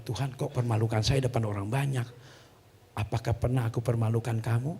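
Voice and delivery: hushed aside, off to God; private word with God. Retold or imitated. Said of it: "saya begini dong".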